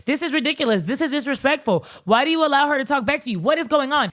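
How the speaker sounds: mock-indignant brother's rant; lightly acted, fed-up scolding; going off. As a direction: imitate an exasperated brother firing off questions. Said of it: "Adnan's brother is going off on him".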